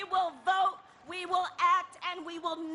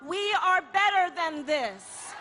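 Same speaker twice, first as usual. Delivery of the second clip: rally shout; 2 semitones higher, 5 dB louder than usual. Real, not acted. Rally speech refrain, crowd.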